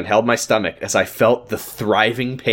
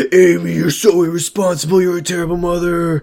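higher, lightly voiced scolding husband; scolding Ricky; 6 semitones higher than usual. Ricky scolding wife Amy over the costume, mock-stern. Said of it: "And Ricky was like".

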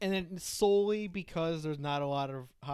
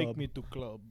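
lightly voiced Russian accent; a hint of a Russian clubber; understated attempt at Russian; mock Russian accent; 3 semitones lower than usual. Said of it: "I was trying to do a Russian".

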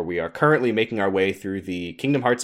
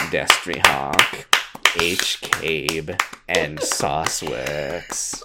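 slow dramatic announcement; 6 semitones lower, much slower than usual. Acted. Reading patron names, slowed.

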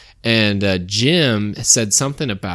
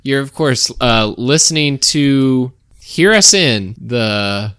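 radio announcer voice; 2 semitones higher, 4 dB louder, slower than usual. Pretend. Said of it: "I almost slipped into my announcer voice right there, my radio voice".

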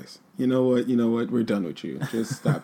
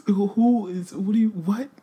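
mock outrage; 9 semitones higher, slower than usual.

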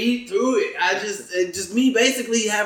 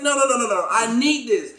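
mock protest; 4 semitones higher than usual. Retells pleading with the woman.

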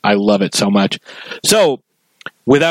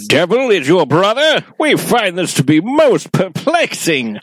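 creature voice; 6 semitones higher than usual. Acted. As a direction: speak as a tiny solemn civilization. Voicing the petri-dish creatures.

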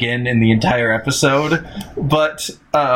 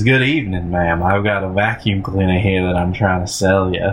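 slight Southern tang; 5 semitones lower than usual. Retold or imitated. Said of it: "he has a slight southern tang".

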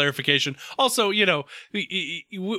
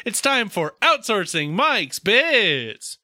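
announcer intro; much slower than usual. Acted.

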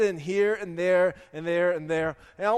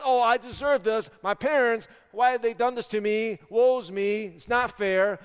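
louder, higher mock complaint; mock victim; 4 semitones higher, 5 dB louder than usual. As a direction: protest like someone feeling sorry for themselves. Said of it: "A victim says".

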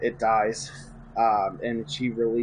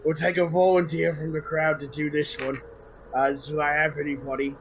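executioner voice; 4 semitones higher than usual. Acted. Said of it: "One of his three character voices".

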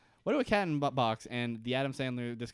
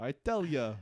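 Rodney Dangerfield impression. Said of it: "like, Rodney Dangerfield".

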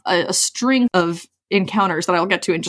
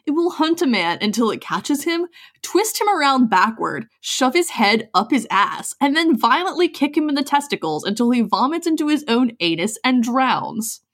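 gym bro. Acted. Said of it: "a bro voice for me".

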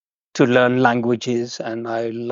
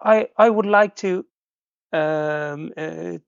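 higher-pitched, lightly voiced kind lady; retelling the woman at the stop, lightly voicing her higher and kind; imitating a helpful woman; 5 semitones higher than usual. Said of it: "she said".

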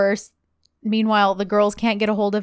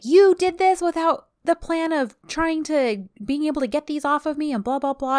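high-pitched mock complaint; irritated retelling; 7 semitones higher than usual. Retelling Eda's complaint to Serkan about the handcuffs, mildly irritated. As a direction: imitate an irritated woman, pitched up. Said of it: "Eda is just so irritated".

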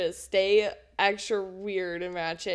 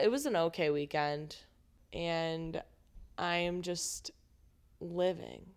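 lying on couch; 2 semitones lower, 4 dB quieter than usual. Real, not acted. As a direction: talk while sprawled sideways on a couch. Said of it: "literally laying on the couch right now".

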